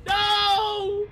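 loud, very high wail; freak-out. Real, not acted. Player watching the game fall apart, screamed despair. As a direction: scream each word in despair. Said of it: "Someone clip his freak out".

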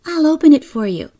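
put-on high, quick, helpful little girl; kindly child. A narrator's reading. Kezia shows visitors the doll's house, kindly and high. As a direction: offer help eagerly and kindly. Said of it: "said Kezia kindly".

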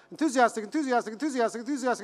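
a touch of rising excitement, rattled off repetitively; mock enthusiasm. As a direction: chant it like a crowd getting keen. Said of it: "getting enthusiastic as you go up".

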